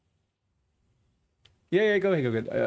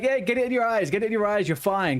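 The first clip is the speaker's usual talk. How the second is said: mock parent voice; 8 semitones higher than usual. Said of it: "They're like".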